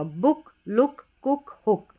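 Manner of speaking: बुक, लुक, कुक, हुक each with short u; short vowel examples. Shown as a demonstration. Teacher listing examples for the pattern, short vowel. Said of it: "छोटा ऊ रहता है उसी का sound".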